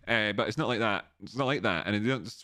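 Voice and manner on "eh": Edinburgh "eh". Shown as a demonstration. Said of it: "don't we?".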